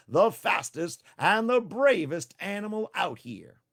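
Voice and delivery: slow, high, loud bragging; Tricky bragging to the animals, slow and loud; proud boast. Acted. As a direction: puff up and brag slowly. Tricky brags.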